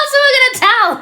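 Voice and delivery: high squeal of laughter; giggling while asking who else; laughing. Real, not acted. Laughing through the line.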